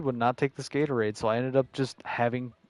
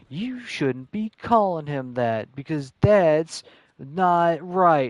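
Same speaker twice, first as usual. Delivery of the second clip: mock annoyed kid; 4 semitones higher, 3 dB louder, slower than usual. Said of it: "he used to get mad and go".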